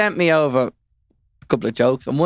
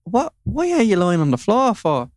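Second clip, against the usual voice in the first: puzzled husband; 8 semitones higher than usual. Retold or imitated. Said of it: "And the man says".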